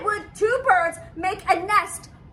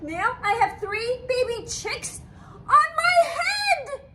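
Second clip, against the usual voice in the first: exasperated cry; 4 semitones higher than usual. Acted. Exasperated complaint.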